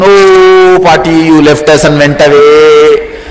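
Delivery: mock funeral lament, stretched and loud; mock mourning wail. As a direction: wail slowly like village mourners. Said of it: "in round circle and".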